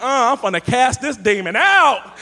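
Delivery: loud, preacher casting out a demon; mock deliverance shout. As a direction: bark it like an exorcist. About to fight punk kids.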